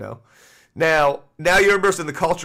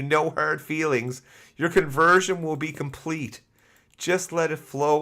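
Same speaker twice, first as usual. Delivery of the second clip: mock soothing cult voice; 2 semitones lower than usual. Reading a creepy letter aloud.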